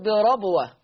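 بربوة said with fatha on the ra; قراءة حفص بفتح الراء; Hafs reading. Shown as a demonstration. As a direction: open the ra in بربوة. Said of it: "حفص يفتح الراء على فكرة يقول".

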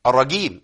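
الرجيم with a hard Egyptian g for the ج; hard g sound. Shown as a demonstration. Teacher showing students the wrong hard g. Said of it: "ما تنفعش خالص".

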